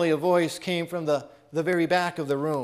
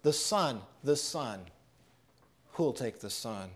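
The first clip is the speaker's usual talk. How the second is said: hushed echo of the call; 6 semitones lower, 8 dB quieter than usual. Shown as a demonstration. Preacher echoing the auctioneer's call to the congregation, hushed. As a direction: let the auctioneer's call fall to a hush. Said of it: "much like the auctioneer, his message today is the same".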